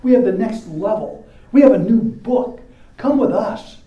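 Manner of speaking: lightly voiced slick salesmen; a hint of a smooth recruiter; mocking false teachers. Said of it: "these guys come around and say".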